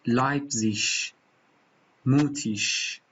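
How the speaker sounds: لایپزیش then موتیش with a light hissed ending; standard German ending. Shown as a demonstration. Teacher sums up the standard ending.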